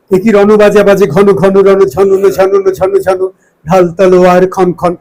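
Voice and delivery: slow, rhythmic recital of a martial poem, every syllable crisp. Shown as a demonstration. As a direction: recite it slowly like a drill for the tongue. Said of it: "কবিতা পড়লে আপনার উচ্চারণ ঠিক হবেই".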